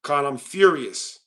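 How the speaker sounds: low, slow deadpan claim of fury; mock fury. Streamer showing Khan how mad he is, deadpan mock fury. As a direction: understate the rage, slow and low. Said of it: "let me show you how mad I truly am".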